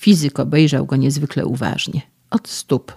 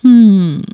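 loud high despairing hum-sigh; 6 semitones higher, 10 dB louder than usual. A narrator's reading. Young man despairs at the sermon, loud despairing sigh. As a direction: let out a hopeless groan. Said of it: "westchnął rozpaczliwie".

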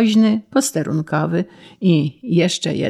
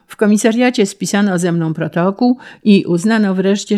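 ordinary delivery, nothing marked

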